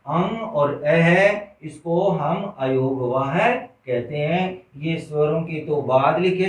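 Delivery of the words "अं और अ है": slow demo of sounds. Shown as a demonstration. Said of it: "तो ये दो होते हैं".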